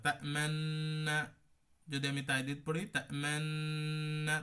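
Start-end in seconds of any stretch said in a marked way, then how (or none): 0.1-1.2 তা'মান্না said very slowly with rounded lips. Shown as a demonstration. Teacher demonstrates ishmam, lips rounded, slow. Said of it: "ওই যে ঠোঁটটা গোল করা". 3.0-4.3 তা'মান্না said very slowly with rounded lips. Shown as a demonstration. Teacher demonstrates ishmam, lips rounded, slow. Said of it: "এই ঠোঁটটা তা'মান্না গোল করে দেবো".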